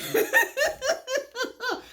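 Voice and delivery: a long, high giggle at herself; high laugh. Real, not acted. Vlogger catching her own phrasing, long high giggle. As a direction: laugh at your own wording.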